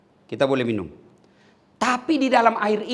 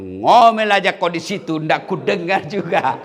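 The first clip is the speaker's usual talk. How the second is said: gloating husband; 6 dB louder than usual. Retold or imitated. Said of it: "Dia bilang suaminya".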